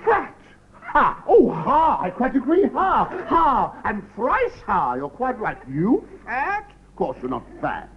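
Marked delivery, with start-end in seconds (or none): 0.0-6.7 high, theatrical scoffing laughter; mock scoffing. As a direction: overdo the outrage for the prince. Courtier mock-scoffing at the idea.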